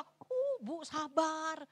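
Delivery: stretched, very slow soothing plea; mock consoling. Comforter mockingly soothes grieving mother, very slow. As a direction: coax her gently to be patient. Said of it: "terus kita".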